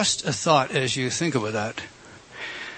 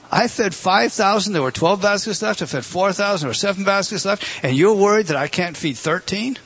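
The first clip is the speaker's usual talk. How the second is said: Jesus rebuking; 5 semitones higher than usual. Acted. Preacher voices Jesus rebuking disciples.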